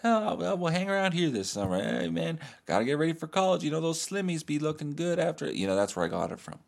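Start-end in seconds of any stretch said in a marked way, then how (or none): 0.0-5.5 put-on high-pitched, brushing-it-off teen; put-on breezy kid voice, pitched up; Will. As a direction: act like it's no big deal, high and casual. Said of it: "And Will goes".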